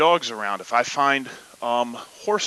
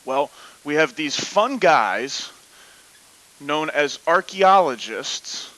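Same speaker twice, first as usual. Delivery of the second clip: football announcer voice; 4 dB louder, slower than usual. Pretend. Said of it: "Nolan football announcer voice".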